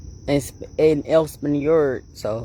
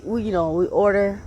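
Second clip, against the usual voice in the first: usual speaking voice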